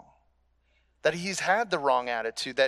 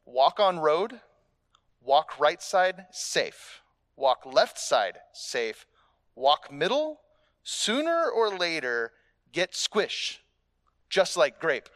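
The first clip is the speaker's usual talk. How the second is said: lightly voiced old karate teacher; mock sensei wisdom, no real accent; quoting Miyagi; slower than usual. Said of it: "how Mister Miyagi says it".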